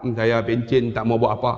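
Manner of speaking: low, sighing mock retiree; lazy pensioner. Pensioner refusing to learn anything, in a low mock grumble. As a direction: grumble it like someone who has quit.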